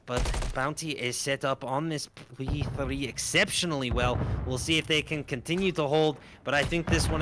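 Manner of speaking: esports play-by-play in a put-on Scottish accent. Caster trying his best at match commentary, Scottish accent. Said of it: "managed to stick to the Scottish accent as well".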